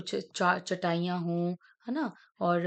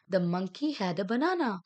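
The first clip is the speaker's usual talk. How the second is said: slow read sentence; much slower than usual. Shown as a demonstration. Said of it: "reading sentence slowly".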